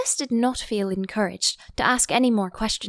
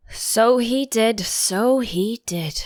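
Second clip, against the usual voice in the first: sighing; 2 semitones higher, 5 dB louder, slower than usual. Acted. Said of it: "sighing in his turn".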